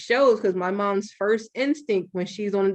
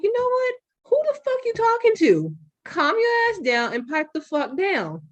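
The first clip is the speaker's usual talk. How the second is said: retold yell; 10 semitones higher than usual. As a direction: hurl it back at her like you've lost patience. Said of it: "I'm like".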